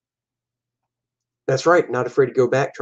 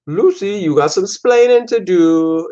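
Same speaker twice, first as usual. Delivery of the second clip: higher mock Cuban accent; Cuban accent impression; 6 semitones higher, 4 dB louder than usual. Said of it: "talk with an accent like that".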